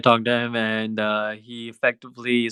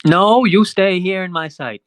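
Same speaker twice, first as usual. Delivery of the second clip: slow, raised-pitch order; commanding guard; 5 semitones higher, 3 dB louder than usual. Acted. Guard stops agents wandering off, slow and raised. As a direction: hold them in place, slowly.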